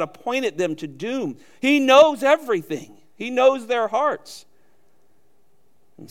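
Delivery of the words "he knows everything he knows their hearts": knows hit high and loud; emphatic preaching on knows; stress on knows. Real, not acted. Preacher stressing God's knowledge.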